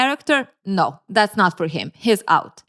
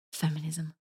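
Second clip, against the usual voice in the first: mocking; 4 semitones lower, 15 dB quieter than usual. Real, not acted. Mocking a word she disagrees with.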